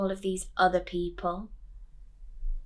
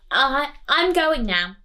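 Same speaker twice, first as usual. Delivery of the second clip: higher, louder, slow nervous stammer; nervous Coraline; 7 semitones higher, 9 dB louder, slower than usual. Acted. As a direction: stammer it out, edging away. Coraline backing away.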